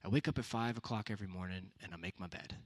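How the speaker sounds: mild calm Navy seal answer; calm quiet answer. Retold or imitated. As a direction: say it quietly, matter-of-fact. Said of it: "very calmly and quietly said".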